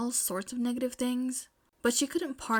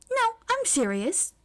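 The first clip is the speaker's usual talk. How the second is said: high, loud insistent voice; stern Mei; 12 semitones higher, 5 dB louder than usual. A narrator's reading. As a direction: insist loudly that she means it. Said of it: "Mei told her sternly".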